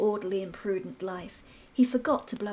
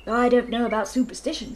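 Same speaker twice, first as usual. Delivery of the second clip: louder, booming colonel voice; bluff colonel; 2 semitones higher, 6 dB louder than usual. Acted. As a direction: boom it out like a hearty old soldier.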